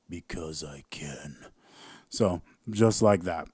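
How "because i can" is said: soft sly whisper; whispered aside. Real, not acted. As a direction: murmur it to yourself.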